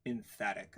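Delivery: "Emphatic" said deliberately for others to repeat; savoring the word. Shown as a demonstration. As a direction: lead a repeat-after-me "Emphatic", stressing "-phat-". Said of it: "Say it with me".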